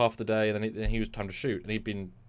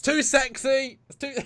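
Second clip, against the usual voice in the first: high amused exasperation; 5 dB louder, slower than usual. Real, not acted. Laughing exasperation.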